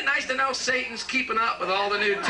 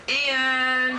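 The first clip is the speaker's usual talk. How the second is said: shouted call, pitched up; 6 semitones higher, 3 dB louder than usual. Retold or imitated. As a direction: yell for Ian across the room. Calling out to Ian.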